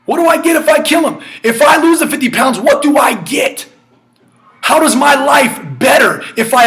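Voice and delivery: high, eager what do I get; urgent self-questioning. Acted. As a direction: lift the voice on each question. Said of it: "David says".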